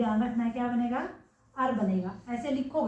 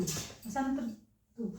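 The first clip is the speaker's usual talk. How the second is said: वसंत ऋतु said very slowly and softer, each syllable stretched; slow, drawn-out demo; 7 dB quieter, much slower than usual. Shown as a demonstration. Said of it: "देखो यहाँ पे वसंत".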